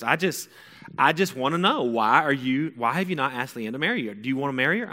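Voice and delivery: imitating a mom pressing for an answer; prying mom. Mom presses son on marrying girlfriend, insistent.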